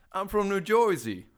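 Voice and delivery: a slow punchline broken by laughter; laughing. Real, not acted. Host cracking up at his own story, laughing hard. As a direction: laugh your way through the line.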